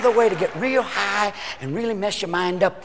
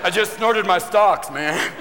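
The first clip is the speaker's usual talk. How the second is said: stoned guy; 2 semitones lower, much slower than usual. Acted.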